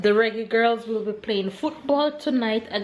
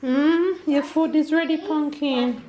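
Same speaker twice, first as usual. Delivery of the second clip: yelling across the room; 9 semitones higher, 5 dB louder than usual. Real, not acted. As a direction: call out across the house. Calling child across house.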